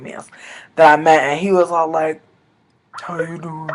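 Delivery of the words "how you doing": Southern drawl. Retold or imitated. Vlogger imitating the man she met, soft Southern drawl. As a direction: softly imitate a smooth Southern accent. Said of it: "giving me Southern accent realness".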